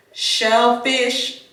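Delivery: slurred through a retainer; talking around a retainer; wearing a retainer. Real, not acted. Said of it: "sorry, y'all, I've been putting my retainers in".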